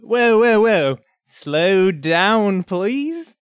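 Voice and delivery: high, drawn-out plea to slow down; struggling foreign speaker. Acted. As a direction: plead slowly, pitch climbing to the last word. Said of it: "he's gonna go".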